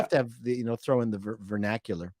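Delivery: lightly done Jamaican accent. Shown as a demonstration. Listing accents for the host, a Jamaican accent. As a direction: slip into a Jamaican lilt. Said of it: "not a bad Jamaican accent".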